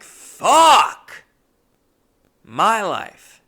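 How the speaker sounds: loud, high cry of exasperation; despairing shout. Retold or imitated. Customer learning he has no recourse, shouting in despair. Despairing reaction to boss's news.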